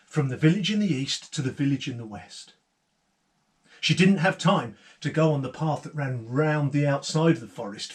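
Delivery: put-on lively storyteller voice for children; story narration. A narrator's reading. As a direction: tell it like a fireside tale. Storyteller continues tale.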